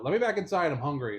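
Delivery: high, loud whining cat, easing off at the end; insistent pet-cat voice; demanding cat. Retold or imitated. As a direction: voice a cat pleading to come in. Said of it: "he'd be at the window".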